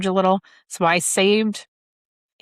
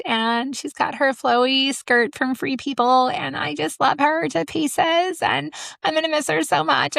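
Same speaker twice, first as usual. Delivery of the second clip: mock a gushing mom, pitched way up; gushing mom impression; 8 semitones higher than usual. Mocking school-gate moms to her listeners, high gushing voice. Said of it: "a lot of moms were like".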